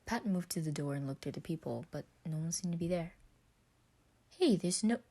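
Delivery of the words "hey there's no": higher, louder puzzled call; puzzled, raised voice. Acted. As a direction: call out at the empty doorway. Patton finds nobody at door.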